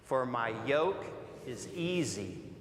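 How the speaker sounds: slow, measured reading aloud with the congregation; slow group reading. Shown as a demonstration. Pastor leading the church in slow scripture reading. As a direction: read each phrase slowly, pausing between. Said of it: "read slowly and out loud together".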